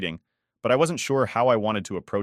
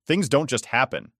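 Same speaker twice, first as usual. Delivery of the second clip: snapped; 5 semitones higher, 3 dB louder than usual. Acted. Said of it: "I snapped".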